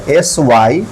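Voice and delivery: slow letter-by-letter spelling. Shown as a demonstration. Spells syllable for learners. (धीरे-धीरे अक्षर गिनाते हुए)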